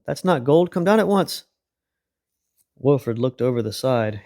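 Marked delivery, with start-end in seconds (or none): 0.0-1.4 higher, firm order; stern command. A narrator's reading. Mister Apple orders Wilfred down, stern. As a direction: insist he come down. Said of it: "shouted Mister Apple".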